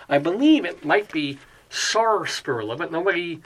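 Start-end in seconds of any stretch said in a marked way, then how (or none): 1.7-2.7 "sarsaparilla" with the first R sounded. Shown as a demonstration. Host guessing the spelling has an R, "sarsaparilla" with R sounded. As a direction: say "sarsaparilla" starting SAR, not SASS. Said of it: "nobody mentions the R".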